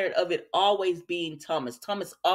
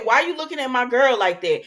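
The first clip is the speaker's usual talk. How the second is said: louder, challenging jealous demand; mock confrontation; 2 semitones higher, 6 dB louder than usual. Retold challenge to Liam, louder and confrontational. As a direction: call him out for staring at your girl. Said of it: "I looked at him and I said".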